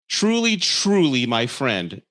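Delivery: sarcastic sing-song on truly; mocking emphasis. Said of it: "I thought he said stranger".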